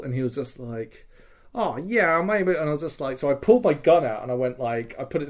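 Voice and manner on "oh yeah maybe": higher-pitched imitated Australian accent. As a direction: put on a casual Australian accent. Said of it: "speaking with an Australian accent".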